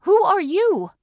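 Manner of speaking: loud, high startled question; frightened aloud. Acted. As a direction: blurt it out in fright. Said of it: "I asked aloud, frightened by the invasion".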